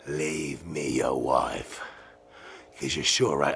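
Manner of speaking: low, slow, mock-kind reply; very kindly. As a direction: offer it slowly and calmly, feigning kindness. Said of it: "I tell him very kindly".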